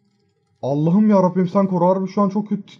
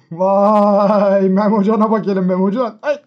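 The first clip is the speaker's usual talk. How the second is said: laughing; 4 dB louder, slower than usual. Real, not acted. Laughs at a photo.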